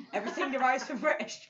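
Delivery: accidental slide into a British accent. Shown as a demonstration. Kid's Russian accent slips, laughing attempt at British. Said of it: "now I'm going British".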